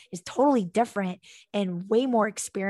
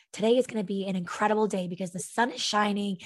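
upbeat imagined morning; 4 dB louder than usual. Pretend. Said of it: "look outside and say".

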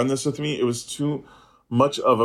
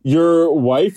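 louder, higher disbelief; astonished retold question; incredulous echo; 6 semitones higher, 6 dB louder than usual. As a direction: blurt it back in comic shock. Repeats incredulous reaction.

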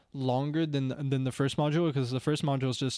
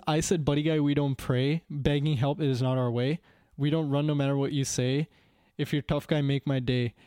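put-on Indian accent. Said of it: "when I'm doing the Indian accent".

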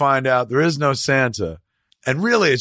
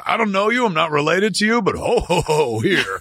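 a hint of a jolly Santa, a bit higher; lightly voiced Santa; 5 semitones higher than usual. Santa hands a kid free presents, in a lightly jolly voice. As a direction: toss it off like a generous stranger, lightly.

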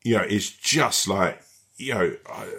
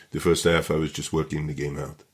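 French footballer impression in a badly done accent; 7 semitones lower than usual. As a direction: have a rough go at a French accent. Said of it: "I'll try and do a bad French accent, Sleet-esque French accent".

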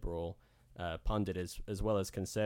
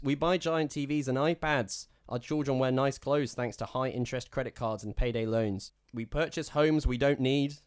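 mock hillbilly reading; 6 semitones higher, 5 dB louder than usual. Shown as a demonstration. Reading quote in put-on voice.

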